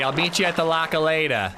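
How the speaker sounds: a light imitation of Mom's Long Island speech; Long Island accent. Quoting mother's old example of Long Island talk, light Long Island accent. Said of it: "her example of what Long Island speak was like".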